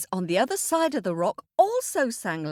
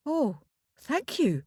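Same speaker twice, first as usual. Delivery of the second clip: put-on boy's thanks; 5 semitones higher than usual. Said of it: "said the boy".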